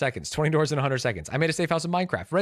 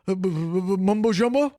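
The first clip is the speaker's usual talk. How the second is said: higher, tentative guess with rising end; hesitant question; 4 semitones higher than usual. Real, not acted. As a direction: stumble into it as an unsure question. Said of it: "Why did you say it like that?".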